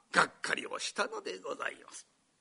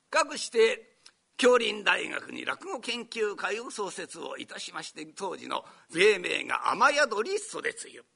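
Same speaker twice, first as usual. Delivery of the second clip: ordinary delivery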